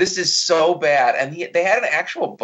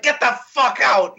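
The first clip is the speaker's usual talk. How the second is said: high-pitched hammed-up yell; mock screaming; 8 semitones higher than usual. Imitating Declan screaming at everybody, high mock yell. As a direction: imitate an overactor screaming someone away. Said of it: "He's just screaming at everybody".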